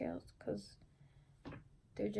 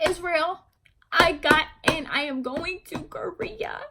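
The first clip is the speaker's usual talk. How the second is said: louder, higher happy call; excited calling; 5 semitones higher, 7 dB louder, slower than usual. Retold or imitated. Calling her brother Israel upstairs to share the news, excitedly. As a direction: shout the news upstairs with joy.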